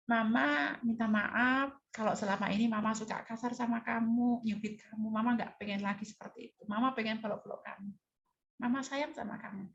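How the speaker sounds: tearful. Retold or imitated. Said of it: "sambil berurai air mata".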